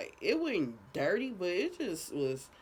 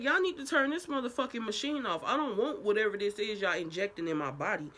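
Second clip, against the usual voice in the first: upset demand; 5 semitones higher than usual. Retold or imitated. Retold demand to nurses.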